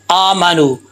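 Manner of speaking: "आमानू" with a long opening aa; correct recitation. Shown as a demonstration. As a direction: hold the first vowel of "आमानू". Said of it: "इसको लंबा करना होता है". ("आमानू" का पहला अलिफ लंबा पढ़ें)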